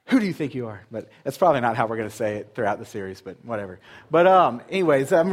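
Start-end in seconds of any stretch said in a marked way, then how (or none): 0.1-0.8 a touch of mock challenge, falling at the end; half-hearted confrontation, lightly pushing back; confrontational. Shown as a demonstration. Pastor showing the church a mild confrontational take. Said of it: "say it as a, a confrontation".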